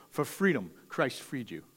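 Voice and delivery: quiet refrain. Real, not acted. Preacher gently repeats the motto to the congregation, quiet. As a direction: let the refrain fall away softly. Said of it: "say that about twenty more times".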